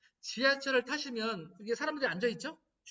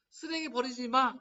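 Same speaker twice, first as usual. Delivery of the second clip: mild scolding; 3 semitones higher, 5 dB louder than usual. Retold or imitated. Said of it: "아까도".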